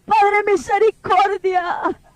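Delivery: slow pleading prayer. Retold or imitated. Pleading with God in dream.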